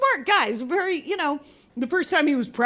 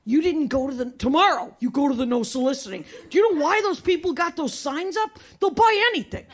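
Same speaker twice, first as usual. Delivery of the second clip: freaked-out dad. Retold or imitated. Dad scolding seven-year-old over candy sales, mock outraged. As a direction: act out the dad losing it over the no-soliciting houses. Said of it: "And he freaked out".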